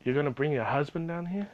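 mildly disbelieving, rising to the end; incredulous question. Retold or imitated. Employee's silent reaction to the mother's threat, mildly incredulous. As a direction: echo the threat as a puzzled question.

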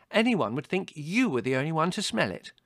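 high, loud sisterly complaint; indignant. A narrator's reading. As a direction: object huffily. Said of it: "said Margot indignantly".

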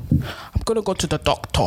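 badly faked Nigerian accent. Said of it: "It's supposed to be Nigerian".

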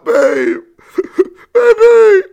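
words breaking into high cracking laughter; can barely get the words out for laughing; laughing through words. Real, not acted. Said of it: "retelling the battered wife scene".

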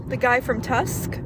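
talking through hiccups; words broken by hiccups. Real, not acted. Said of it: "so I have the hiccups".

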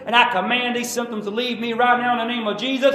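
loud, rising faith declaration; shouted confession of faith; bold declaration. Shown as a demonstration. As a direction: proclaim it to the symptoms.

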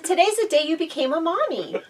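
high-pitched, retold announcement to mom; excited announcement. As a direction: pitch it up like happy news.

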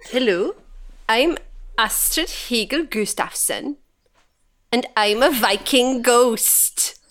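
lightly put-on Swedish accent, slow; a hint of Swedish Viking, drawn out slowly. Host introduces her Viking ghost in a light Swedish accent. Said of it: "doing an accent for this one".

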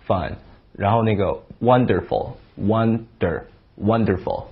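wonderful and wonder said slowly, short uh; slow drill. Shown as a demonstration. Teacher drilling words with the uh sound. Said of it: "我们来练几个".

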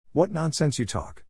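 high, scornful outcry; indignant cry. A narrator's reading. Iron Bones scorns the Bodach's offer, high indignant cry. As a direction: cry it out high, waving the idea away. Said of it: "cried Iron Bones".

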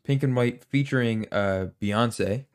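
talking around an ice cube; words round a mouthful of ice. Real, not acted. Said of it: "Sorry, I just got ice cube in my mouth".

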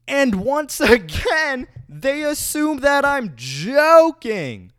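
high, slow, laughing disbelief; exasperated laugh. Real, not acted. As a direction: laugh through the frustration.

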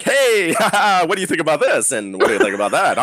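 exaggerated upbeat host energy; hyped-up film guy voice. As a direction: overeager bright questioning. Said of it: "I'm not usually like".

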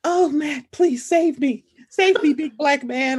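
put-on helpless plea; mock damsel in distress. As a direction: beg to be rescued, hammed up. Mimicking a damsel begging for rescue.

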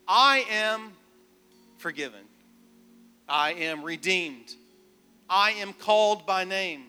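preacher's declaration. Acted. Preacher leading thirty-one declarations over the church, proclaiming. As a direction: declare each line solemnly over the congregation.

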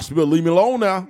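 playful Shannon brag; Shannon impression. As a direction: rattle it off with a laugh behind it. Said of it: "He's like".

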